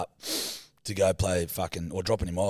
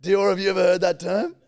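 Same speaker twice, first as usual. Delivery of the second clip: high, raised-voice question; loud, high-pitched plea for support; loud appeal; 10 semitones higher, 7 dB louder than usual. Real, not acted. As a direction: call out for someone to back you up. Appeals to third person in defence.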